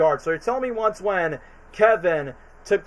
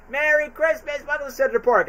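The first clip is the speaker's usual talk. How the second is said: creepy greeter; 9 semitones higher than usual. Retold or imitated. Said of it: "It's like".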